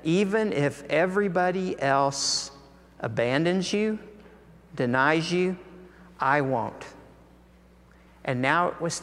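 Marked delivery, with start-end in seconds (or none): 0.0-6.8 mildly emphatic retold pledge, measured phrases; emphatic vow. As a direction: imitate a firm promise, pausing between clauses. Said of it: "had emphatically looked Jesus in the eye and said".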